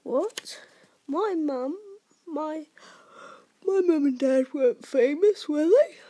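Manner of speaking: high, halting, then loud disbelief; stumble, then burst out incredulously; astonished. A narrator's reading. Harry learning his parents were famous, astonished.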